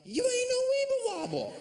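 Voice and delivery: high, loud laughing yell; yelled taunt. Pretend. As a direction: shout it in triumph over her. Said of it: "where I can yell".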